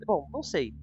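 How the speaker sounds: ordinary talk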